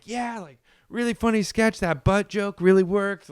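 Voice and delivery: mock praise. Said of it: "we're all like".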